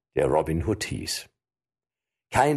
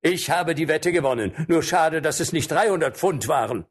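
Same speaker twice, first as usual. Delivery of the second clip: triumphant; 9 semitones higher than usual. Acted. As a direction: crow about the win. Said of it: "rief Robin".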